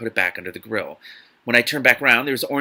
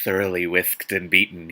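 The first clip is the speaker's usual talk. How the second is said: lower, smirking put-on voice; odd put-on voice for Christian; 5 semitones lower than usual. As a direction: smirk it out in a silly low voice. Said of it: "I don't know why I gave it that voice".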